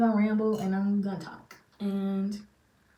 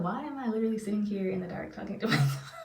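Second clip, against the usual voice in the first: amused self-question; 4 dB quieter, faster than usual. Retold or imitated. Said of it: "I'm like".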